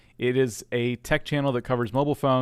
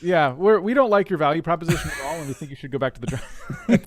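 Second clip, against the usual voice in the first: mock harsh critique; 4 semitones higher, 4 dB louder than usual. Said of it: "I'm kidding".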